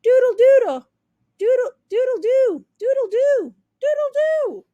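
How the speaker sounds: high, loud joyful crow; turkey overjoyed at her new sound, crowing; excited crowing. Acted. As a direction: crow with delight while spinning. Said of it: "She cried, spinning around".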